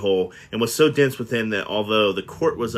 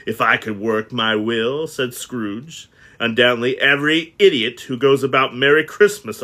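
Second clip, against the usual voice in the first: mild miser's rant. Acted. Scrooge ranting at nephew.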